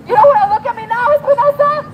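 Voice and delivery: fast, high mocking taunt. Real, not acted. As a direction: needle him with a taunt. Taunting officer.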